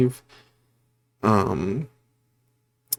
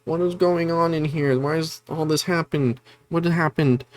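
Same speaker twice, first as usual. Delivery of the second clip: mock panic; 7 semitones higher than usual. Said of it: "like, panicking".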